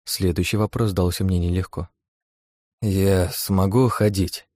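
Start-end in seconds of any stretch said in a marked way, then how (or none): 2.8-4.5 very slow, carefully even; forced calm. Acted. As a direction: keep the voice steady on purpose. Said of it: "стараясь, чтобы голос звучал спокойно".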